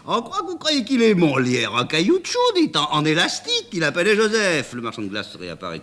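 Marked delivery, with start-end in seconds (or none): 0.0-4.7 much higher, laughing mockery; tickled by the silly idea; amused. A narrator's reading. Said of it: "que cette idée met en joie".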